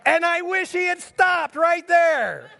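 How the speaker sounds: half-shouted laughing punchline; laughing at his own story; laughing aside. Real, not acted.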